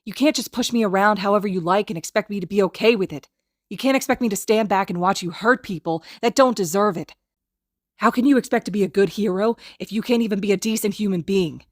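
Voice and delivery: loud, high furious tirade; hiss. Acted. Izuku struggling against Kacchan's grip, hissing a tirade. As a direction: unload every grievance at him. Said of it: "Izuku hisses".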